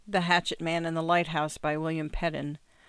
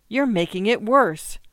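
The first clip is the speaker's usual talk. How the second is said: sharp interruption; 4 semitones higher, 6 dB louder than usual. A narrator's reading. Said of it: "His mother interrupted".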